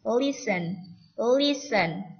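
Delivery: "Listen" said as "lisən"; silent T. Shown as a demonstration. Teacher models the short command, "Listen" with no T. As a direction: say "Listen" clearly, leaving out the T. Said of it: "Jadi T-nya tidak dibaca".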